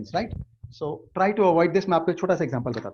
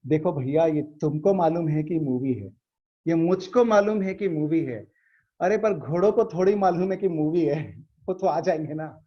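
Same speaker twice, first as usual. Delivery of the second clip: lightly acted simpleton's earnest explanation; naive reasoning. Villager explaining that horses don't know it's a movie, mock naive. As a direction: argue innocently, leaning on each contrast. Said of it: "बहुत नादानी के सवाल, जवाब दिया".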